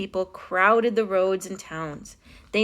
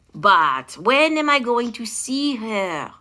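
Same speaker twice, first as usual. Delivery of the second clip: impatient king; 2 semitones higher, 4 dB louder, slower than usual. A narrator's reading. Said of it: "the king said".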